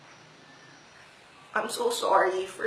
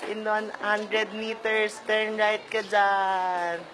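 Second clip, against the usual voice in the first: navigation voice; slower than usual. Shown as a demonstration. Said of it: "maging Waze voice".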